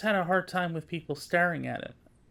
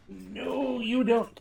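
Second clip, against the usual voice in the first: sharp high no to a pet; scolding the cat; 5 semitones higher, much slower than usual. Real, not acted. Owner catching the cat climbing, sharp warning. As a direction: stop the cat mid-jump.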